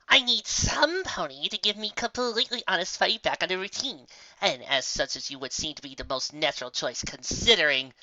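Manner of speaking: grand but trailing off at the end; a hint of a boastful unicorn; lightly voiced haughty Trixie. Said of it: "she trailed off".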